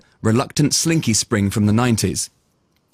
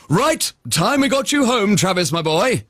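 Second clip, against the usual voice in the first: unicorn voice; 7 semitones higher than usual. Acted. Brian speaks.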